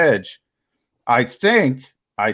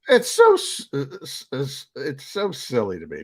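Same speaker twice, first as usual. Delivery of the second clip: laughing; 3 semitones higher than usual. Real, not acted. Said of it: "I can't stop laughing".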